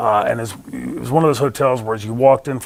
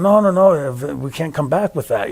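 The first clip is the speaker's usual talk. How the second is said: retold protest, dragged out a little; raised-pitch opening, then a stretched-out objection; drawn out; 3 semitones higher than usual. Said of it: "drawn out".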